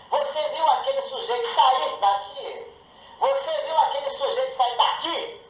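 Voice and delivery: "você" punched, falling at the end; "Você viu aquele sujeito sair daqui?" with "você" stressed. Shown as a demonstration. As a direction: lean on the word "você". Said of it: "mudar a palavra tônica em uma frase".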